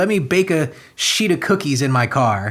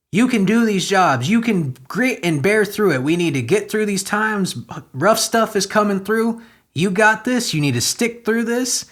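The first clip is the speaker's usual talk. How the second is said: higher, pleading exhortation; mock pep talk; 4 semitones higher than usual. Commentator implores Americans to keep working, mock-pleading. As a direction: urge them on with mock earnestness.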